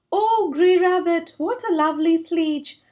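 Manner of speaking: delighted squeal over the new sledge; excited cry. Acted. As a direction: gasp with delight at the gift. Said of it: "cried Squirrel".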